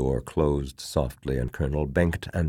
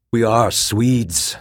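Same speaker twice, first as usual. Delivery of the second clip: slow, loud, higher proud retort; brittle disdain; 8 semitones higher, 8 dB louder, slower than usual. A narrator's reading. Officer defying his fellow officer, brittle with disdain. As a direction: answer with brittle, raised disdain. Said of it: "His voice was brittle with disdain".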